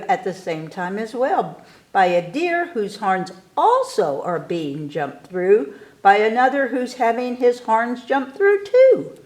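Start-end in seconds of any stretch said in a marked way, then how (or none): none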